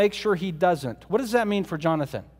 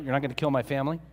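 quiet, rising and unsure; anxious soft question; 6 semitones lower, 6 dB quieter, much faster than usual. Acted. Jonathan quietly asking David for a promise, soft uncertain rising question. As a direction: ask it softly, needing reassurance.

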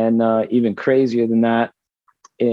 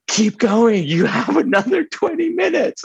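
much higher put-on voice, mock urgent call; manager yelling; 14 semitones higher than usual. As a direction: imitate the manager urging from the wings.

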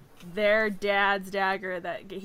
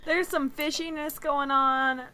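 higher, louder in-character voice; 7 semitones higher, 5 dB louder than usual. Acted. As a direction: slip into your character to speak. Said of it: "we'll have to do it in character voice".

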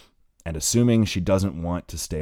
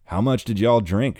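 half-hearted playful; 6 semitones higher, 6 dB louder than usual. Acted. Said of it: "half-hearted attempt to say it playfully".

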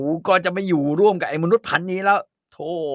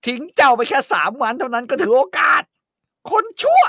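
loud, high ranting outburst; furious mother shouts at daughter; ranting market vendor; 8 semitones higher, 5 dB louder than usual. Acted. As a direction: rail like a market woman. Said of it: "ก็โวยวายเลยนะ นึกถึงภาพแม่ค้าในตลาด".

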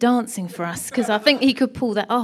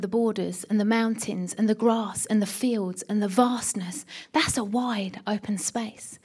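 hushed whisper; 2 semitones lower, 5 dB quieter than usual. Real, not acted. Preacher describing vast scenery.

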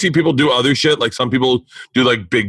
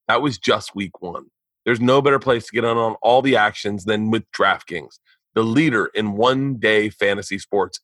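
podcast sponsor read with punched offers. Acted. Host selling fantasy sports app to listeners, ad read. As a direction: pitch it to the listeners, leaning on key words.

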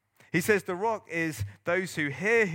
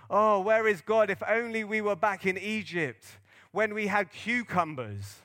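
mock grumbling; 3 semitones higher than usual. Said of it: "they say these mad things like".

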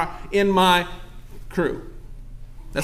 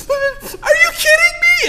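high, slow sobbing disbelief; wife crying on the phone, sobbing. Retold or imitated. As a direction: wail it high and slow through tears. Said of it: "all she can say over and over".

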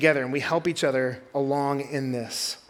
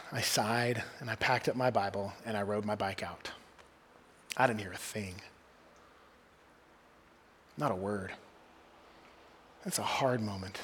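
subdued sadness; 6 semitones lower, 10 dB quieter than usual. Real, not acted. Recalls unanswered prayer, voice drops.

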